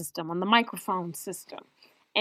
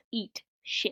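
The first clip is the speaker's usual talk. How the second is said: slow sultry insult; 9 dB quieter than usual. Retold or imitated. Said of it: "she says it's so cute and slow and sultry".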